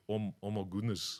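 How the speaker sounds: Greek-Australian wog accent; Aussie wog accent. Shown as a demonstration. Guest does the Aussie version, wog accent. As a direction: put on an Aussie immigrant accent. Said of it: "the Aussie version".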